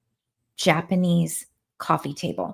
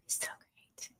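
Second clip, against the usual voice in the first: breathy unvoiced whisper of delight; soft whispered longing; 21 dB quieter than usual. Real, not acted. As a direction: breathe it out like a dreamy wish. Dreamy aside after wine invitation.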